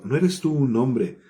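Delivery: fuerte, lento y desafiante; le echa en cara su falta; reproche gritado. Acted. David reproaching Abner from afar. (grito lento de reproche)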